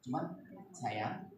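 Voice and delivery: soft, slow, gentle question; tender mother. Shown as a demonstration. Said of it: "kalau begini tanya". (ibu bertanya lembut pada anak)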